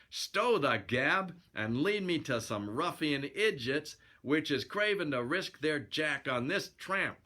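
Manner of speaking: lightly voiced cocky prizefighter; a touch of slow fighter bravado; boxer hero. Narrator retakes boxer hero's line.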